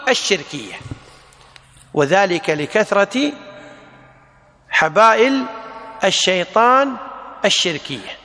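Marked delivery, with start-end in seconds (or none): 1.9-8.2 each word set apart with long pauses; word-by-word dictation. Shown as a demonstration. Teacher dictating to students, word by word. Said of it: "teacher repeats phrase for dictation".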